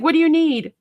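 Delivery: firm demand. Retold or imitated. Storyteller quoting a friend confronting a stranger, firm demand. Retold quote of Bernie confronting man.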